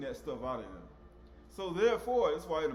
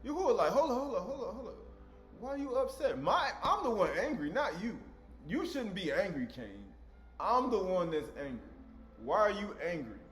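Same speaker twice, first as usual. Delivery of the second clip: raised, insistent scolding voice; a hint of an indignant scolding parent; mock exasperated God. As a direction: scold like a fed-up father asking why. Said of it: "He said".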